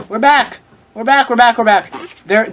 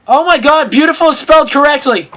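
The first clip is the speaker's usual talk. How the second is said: surprised; 4 semitones higher, 4 dB louder than usual. Real, not acted. Surprised by correct spelling.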